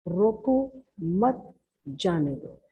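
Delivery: slow example sentence, pausing after रोको before मत जाने दो; jeda setelah रोको. Shown as a demonstration. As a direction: split it as रोको, then मत जाने दो. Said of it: "अब इसको कह रहे हैं".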